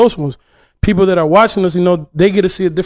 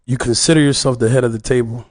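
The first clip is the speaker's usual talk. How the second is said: wrestling promo; 5 semitones lower than usual. Pretend. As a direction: growl a heel's challenge at the champ. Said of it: "cut a promo right now".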